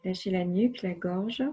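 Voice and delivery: unhurried relaxation voice with long silences; guided relaxation. Acted. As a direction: guide the body to let go, phrase by phrase. (voix posée de relaxation guidée)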